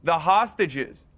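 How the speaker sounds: low, slow, drawn-out words; talking down with deliberate weight; patronizing. Real, not acted. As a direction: spell it out condescendingly, very slowly. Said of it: "Very patronizing".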